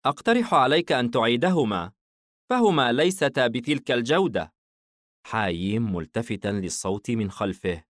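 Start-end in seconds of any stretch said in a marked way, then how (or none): 0.0-4.5 voice from behind. Acted. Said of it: "فاستوقفه صوت من خلفه قائلًا".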